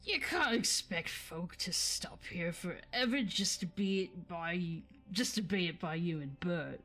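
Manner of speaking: loud, scolding Cockney troll; William's troll accent. Acted. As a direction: tell him off in a rough Cockney troll voice. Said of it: "Forgive me for the accents".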